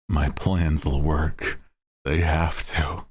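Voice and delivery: slow, lightly menacing villain; a hint of an anime villain. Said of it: "like a villain from a shonen".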